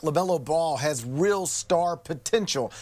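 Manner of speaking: slow line, extra weight on the word potential; stress on potential. Real, not acted. Analyst praising a draft pick, stressing potential. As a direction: lean into potential, drawn out. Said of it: "I emphasize the word potential".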